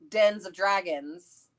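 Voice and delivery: ordinary delivery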